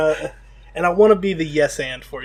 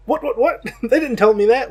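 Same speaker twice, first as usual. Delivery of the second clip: higher, startled repeated what; mock surprise; 8 semitones higher, 4 dB louder than usual. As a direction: play the shocked buyer. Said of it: "It's like".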